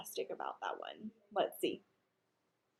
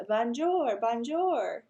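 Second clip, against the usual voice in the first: a hint of bird voice, bright repeat; 2 semitones higher, much slower than usual. Mynah bird repeating through the wall. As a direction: parrot the greeting. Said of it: "in a bird voice".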